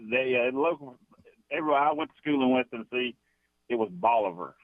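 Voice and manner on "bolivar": Bolivar as BAH-luh-ver; A instead of O. Shown as a demonstration. Caller recalls school in West Tennessee, Bolivar with an A sound. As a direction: open the first vowel of Bolivar almost to an A. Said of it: "almost an A instead of a O".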